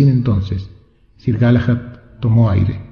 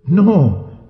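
a higher cry of refusal; shouted no; 7 semitones higher than usual. A narrator's reading. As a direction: shout no at the news. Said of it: "gritó el rey". (el rey grita que no)

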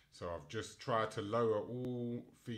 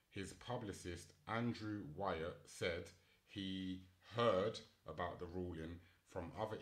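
reading article aloud; 6 dB quieter than usual. Real, not acted. Reads news article aloud.

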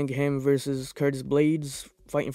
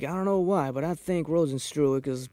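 slurred, tipsy delivery; playing it a bit drunk. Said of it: "That was my drunk voice".

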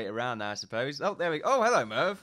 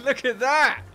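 higher, louder gleeful look at that; delighted; 10 semitones higher, 8 dB louder, slower than usual. Real, not acted. Player showing off his pirate, high and gleeful. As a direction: point it out in giddy glee.

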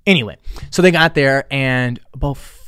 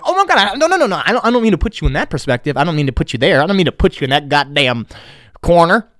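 flustered backpedal; 5 semitones higher, 3 dB louder than usual. Retold or imitated. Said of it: "And I'm like".

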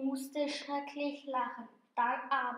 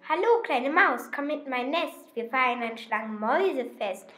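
sly snake; 5 dB louder than usual. Acted. Snake luring the mouse into its nest, louder. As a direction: hiss out a sweet invitation.

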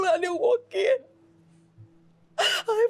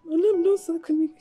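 tearful plea; 4 semitones lower than usual. Acted. Cook begs madam.

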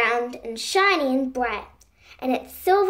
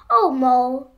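a louder call down into the ground; 6 dB louder than usual. Acted. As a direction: call to him so he hears below. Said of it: "called little Bilby loudly".

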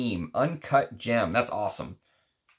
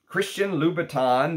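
higher, drawled Texan Louboutin; playful Texas twang on the name; Texas accent; 6 semitones higher than usual. Pretend. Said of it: "in my Texas accent".

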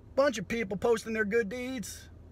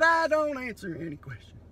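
mock yell; 3 semitones higher, 3 dB louder than usual. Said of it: "Yelling through his window loud like that".

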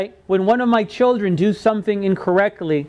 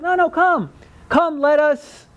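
higher-pitched, eager beckoning; reassuring invitation; 5 semitones higher, slower than usual. Acted. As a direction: wave away the worry and invite them in. God answers with an invitation.

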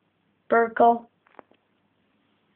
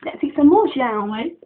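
playful invitation; 3 semitones higher, 4 dB louder than usual. Pretend. Feeding the pet, playful.

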